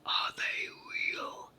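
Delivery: high, slow giantess voice; thundering delight. A narrator's reading. Giant's wife marvels at the brownies, delighted. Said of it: "thundered his wife in delight".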